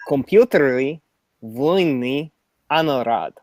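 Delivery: slow, lightly Russian robot voice; hint of a Russian accent. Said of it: "I'll try the Russian accent".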